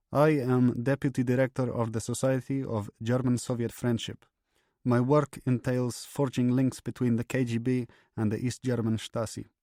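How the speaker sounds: stiff, composed KGB major giving his name; Platov speaking. A narrator's reading. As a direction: read it like a calm, measured confession. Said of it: "Platov began speaking in Russian".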